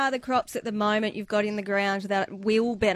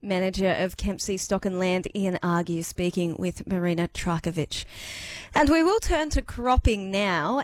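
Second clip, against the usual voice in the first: news read; 3 semitones lower than usual. Acted. Radio rural news read.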